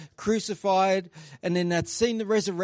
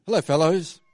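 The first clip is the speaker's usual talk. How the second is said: put-on breezy, louder hello to old mates; a chummy hello in a sermon aside; casual greeting; 6 dB louder than usual. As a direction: greet them like friends at the pub. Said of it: "It sounds very much like Jesus, doesn't it? Like".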